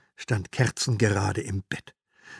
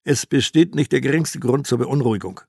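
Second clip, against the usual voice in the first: loud, confident newsreader calm; smooth expert voice; 6 dB louder than usual. Acted. TV expert calming the nation, loud and assured. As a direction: soothe the viewers like a TV market pundit. TV market expert reassures viewers.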